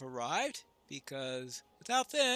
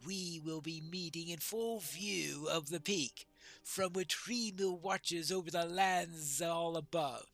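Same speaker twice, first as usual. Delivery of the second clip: measured, declaimed character reading; lightly voiced dwarf prince; 4 dB louder than usual. Dwarf prince weighs the call to moot, lightly declaimed. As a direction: deliver it as a lightly acted proud dwarf.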